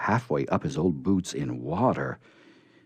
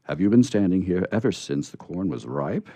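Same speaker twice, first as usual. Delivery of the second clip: pitying; 4 dB louder than usual. Acted. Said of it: "he asked pityingly".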